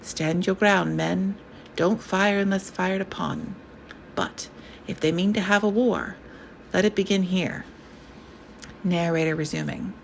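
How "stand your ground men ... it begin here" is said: calm voice. Acted. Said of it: "A calm voice".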